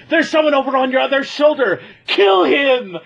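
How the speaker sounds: lightly acted villain command; urgent order. Brother warning the giant about his shoulder, urgently commanding.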